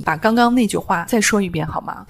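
level, unhurried polite request; calm and even. Shown as a demonstration. To a provoking coworker, calm polite request. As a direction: stay calm, don't take the bait. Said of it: "你就再继续说这句话".

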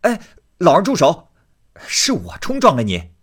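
high, loud cry to stop a blow. Acted. Jia Yun cries out to Ni Er to stop hitting him, high and loud. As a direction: shout him off before the punch lands. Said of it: "只听那人叫道".

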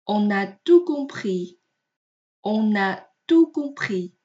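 slow, careful model reading with "On a" linked; linked liaison. Shown as a demonstration. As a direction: sound the n joining "On a". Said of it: "我们连在一起读呢". (慢速示范，On a连读)

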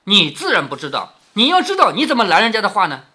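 scoffing, sarcastic challenge; mock the denial, then press the question; mildly derisive interrogation; cold sneer. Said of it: "凤姐就冷笑着说".

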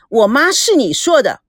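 understated indignation; very displeased. Acted. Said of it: "赵美娇非常不高兴地说".

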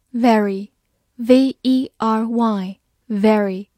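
slow letter-by-letter spelling. Shown as a demonstration. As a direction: spell it out slowly for the class. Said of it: "spelling demo".

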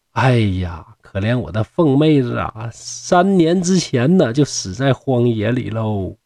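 mournful, drawn-out lament, no real sobbing; acted grief, dragging out the words slowly; tearful lament. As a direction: lament a lost sister with slow, falling phrases. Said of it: "孝儿就落泪说".

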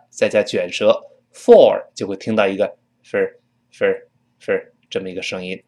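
"for" said as a weak "分儿"; reduced vowel. Shown as a demonstration. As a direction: reduce "for" to a schwa with r-colour. (弱读成"分儿")

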